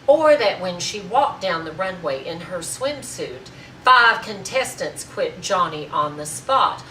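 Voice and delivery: loud, emphatic speech building to full force; proud, forceful oratory with punched words; indignant tirade. Acted. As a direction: defend your sister in a grand, ringing tirade. Acted tirade defending her sister to Marjorie.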